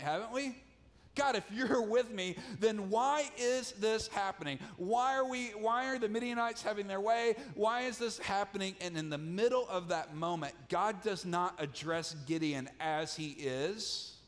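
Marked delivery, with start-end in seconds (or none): 1.1-8.8 pleading complaint. Retold or imitated. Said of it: "We've all asked that at some point".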